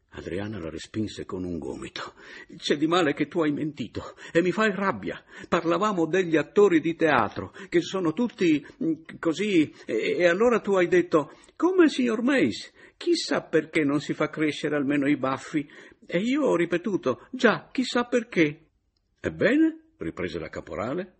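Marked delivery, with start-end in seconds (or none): 2.6-18.7 put-on high, loud sulky girlish scolding; upset accusing. A narrator's reading. Adriana scolding Caporale, high upset complaint. 19.2-19.9 challenging. A narrator's reading. Caporale challenging.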